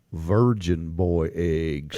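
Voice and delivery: deep, slow ominous voice; low voice. Shown as a demonstration. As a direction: drop way down low. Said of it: "And you have to say it".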